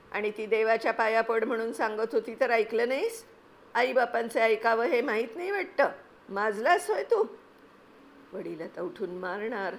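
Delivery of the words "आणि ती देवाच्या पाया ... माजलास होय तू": father's scolding building louder and higher; rising anger. Acted. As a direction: swell into a furious high shout. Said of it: "वडिलांचा राग आणि आवाज वाढत होता".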